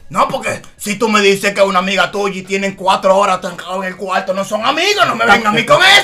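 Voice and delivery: lightly voiced mother telling off her son; retold scolding mother. (regaño de mamá imitado, subiendo al final)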